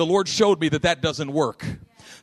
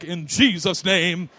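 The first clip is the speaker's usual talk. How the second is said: slow, drawn-out mock pronouncement; confident faith-healer declaration; much slower than usual. Shown as a demonstration. Preacher showing how his prayer did not sound, grand declaration. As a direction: stretch each word with solemn authority. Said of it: "it wasn't like".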